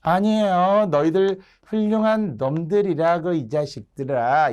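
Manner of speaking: acted servant's protest; mock excuse. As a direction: make a sham excuse with a jab inside. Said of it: "말뚝이의 변명".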